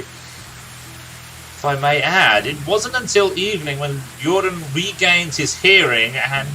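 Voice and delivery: a lightly voiced grizzled old storyteller, unhurried; a gruff old warrior recounting his friend's youth; storyteller NPC. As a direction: tell the tale like a weary veteran by the fire.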